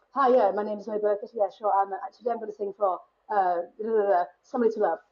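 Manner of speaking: ridiculous RP audition voice, lightly done; put-on posh accent. Nervy newcomer introducing a song at a theatre audition, mock posh accent. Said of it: "I always put on this really ridiculous accent".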